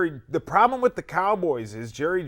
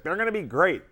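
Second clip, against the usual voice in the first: mocking Cowboys fans; 6 semitones higher than usual. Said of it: "everybody's always like".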